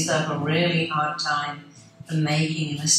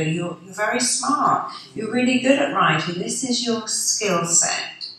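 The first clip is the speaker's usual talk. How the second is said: lightly higher, encouraging teacher praise; a hint of a proud teacher; praising teacher; 5 semitones higher than usual. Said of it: "you want the teacher or your parent to go".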